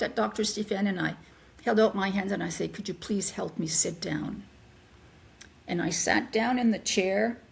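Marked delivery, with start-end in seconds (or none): 2.7-4.4 breathless whisper, barely voiced; whispered request. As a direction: whisper it weakly to the doctor. Asking the doctor for help.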